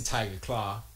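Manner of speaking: ordinary talk, nothing marked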